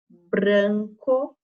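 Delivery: "Branco" with a pushed R, rising at the end; forced R. Shown as a demonstration. Teacher helping pupils notice the sound, forced R in "Branco". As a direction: lean on the Br of "Branco". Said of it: "dando essa forçadinha no R".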